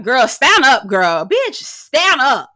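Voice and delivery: exasperated loud urging; mock yelling at her to stand. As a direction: yell at her to get up.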